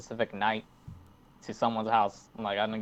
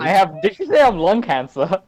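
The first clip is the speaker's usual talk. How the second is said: incredulous; 5 semitones higher, 5 dB louder than usual. Real, not acted. Incredulous repeat of quote.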